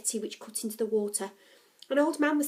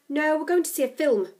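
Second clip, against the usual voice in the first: louder, higher touchy retort; snapped; 5 semitones higher, 6 dB louder than usual. A narrator's reading. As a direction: snap back sarcastically. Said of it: "snapped Becky".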